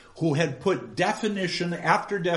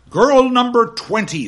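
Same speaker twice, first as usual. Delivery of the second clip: barked out, high and loud; stern shout; 9 semitones higher, 10 dB louder than usual. Acted. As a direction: call out the girl sharply. Gradgrind calls on the girl.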